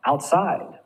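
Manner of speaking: "outside" with the weight on SIDE; stress on second syllable. Shown as a demonstration. Teacher giving compound adverb examples, stress on SIDE in "outside". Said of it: "You're gonna stress the second syllable".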